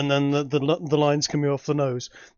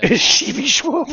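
laughing; 9 semitones higher, 6 dB louder than usual. Real, not acted. Repeats, laughing.

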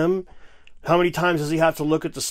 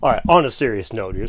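mock serious; 4 semitones lower, 3 dB louder than usual. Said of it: "I deal in seriousness here".

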